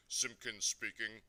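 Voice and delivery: lightly pompous phone greeting; important telephone voice. A narrator's reading. Father picking up the house telephone, self-important. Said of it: "in his very important telephone voice".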